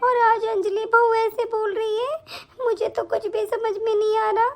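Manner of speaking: distressed lament. Acted. Mother-in-law laments family quarrel.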